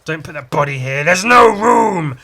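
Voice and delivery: hammed-up dead body's complaint; corpses crying out. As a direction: protest building to a loud wail. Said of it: "bodies that are already there are saying".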